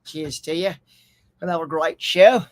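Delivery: put-on playful stab at an Aussie accent; attempted Australian accent. Host greeting his new Australian viewers, attempted Australian accent. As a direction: greet them in imitation Australian. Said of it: "Got me some Australians".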